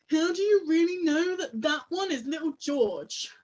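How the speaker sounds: doubting sibling's challenge; sceptical questioning. Acted. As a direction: question it with open disbelief. Brother's challenge in acted sibling quarrel.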